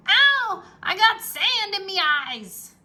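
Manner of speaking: high, loud, slow whine; pirate complains of sand in his eyes; whining pirate. A narrator's reading. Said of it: "Pinky whined".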